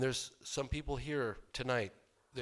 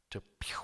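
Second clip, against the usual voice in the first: imitated zoom; 5 dB quieter than usual. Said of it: "He goes".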